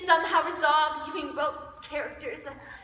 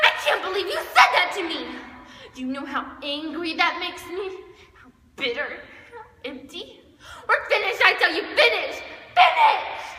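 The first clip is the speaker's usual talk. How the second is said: hammed-up angry outburst, louder; mock emotional outburst; 5 dB louder than usual. Shown as a demonstration. Duet performer demonstrates a staged angry outburst. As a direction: fake a dramatic blowup. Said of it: "dramatic emotional outburst".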